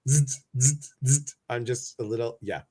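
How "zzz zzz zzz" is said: zzz, zzz, zzz buzzed like a jittery hum; buzzing noise. Retold or imitated. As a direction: buzz like you're wired on caffeine. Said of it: "and it's like".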